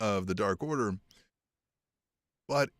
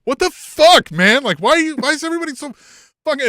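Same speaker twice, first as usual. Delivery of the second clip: mock furious shout, much higher and louder; furious rant; 11 dB louder than usual. QT Marshall blowing up at everyone, hammed-up furious shout. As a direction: yell it like a wrestler who's been robbed. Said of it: "And then he's like".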